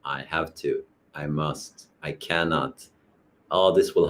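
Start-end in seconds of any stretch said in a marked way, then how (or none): none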